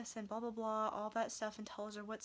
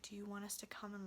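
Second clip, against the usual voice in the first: whispered police offer; 6 dB quieter, faster than usual. Retold or imitated.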